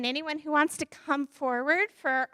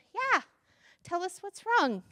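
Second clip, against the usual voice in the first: eager cat; 6 semitones higher than usual. Acted.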